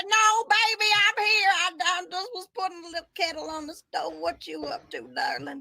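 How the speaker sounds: sweet mom voice. Acted. Mom voice played by friend.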